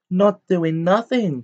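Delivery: high, loud, slow taunt; gleeful mischief-maker's cackling voice; cackling poltergeist. A narrator's reading. Poltergeist defying the professor, cackling taunt. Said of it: "cackled Peeves".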